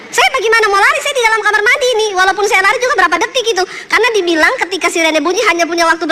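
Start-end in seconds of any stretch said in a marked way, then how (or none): 0.1-3.6 higher, hurried mock protest; retold flustered protest. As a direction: rattle off the objection, pitch raised. Retells protesting to husband from bathroom.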